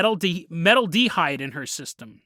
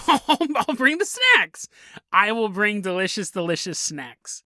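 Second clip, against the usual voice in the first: creepy offer; 2 semitones higher than usual. Retold or imitated. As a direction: offer snacks with a menacing grin. Creepy boyfriend offering snacks.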